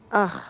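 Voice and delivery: weary "ugh"; disgusted sigh. Real, not acted. Woman lamenting destroyed property, dismayed groan. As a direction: let out a short groan of dismay. Sighing over lost innocence.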